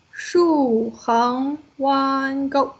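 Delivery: very slow, elongated stroke names; stroke-by-stroke naming. Shown as a demonstration. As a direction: draw each word out along with the stroke. Names strokes while writing the character.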